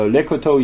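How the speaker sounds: Lecoteau said wrongly with a final oh; imitated mispronunciation. Quoting Caroline's terrible pronunciation, Lecoteau ending in oh. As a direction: say Lecoteau as leh-ko-TOH. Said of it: "your pronunciation of".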